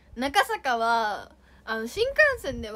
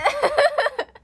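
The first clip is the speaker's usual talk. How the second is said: loud high laugh; 14 semitones higher, 8 dB louder than usual. Real, not acted. Laughs after teasing comment.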